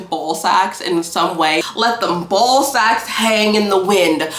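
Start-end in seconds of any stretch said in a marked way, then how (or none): 1.7-4.3 imitating a major addressing his troops; mock major's speech. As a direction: declaim it like a rousing speech. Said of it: "every speech he gives".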